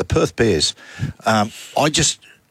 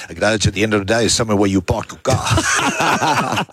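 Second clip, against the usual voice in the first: put-on South African accent. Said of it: "your South African accent".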